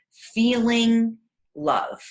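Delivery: normal talking voice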